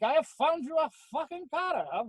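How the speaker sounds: high, sing-song fake Welsh accent; mock Welsh accent. Max announcing he found a car, mock Welsh accent. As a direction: lay on a Welsh lilt, pitched high. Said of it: "And that Wel".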